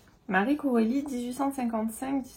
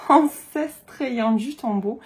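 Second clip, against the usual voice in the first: laughing through it; 2 semitones higher, 7 dB louder, much slower than usual. Real, not acted. Laughs at her own stumble.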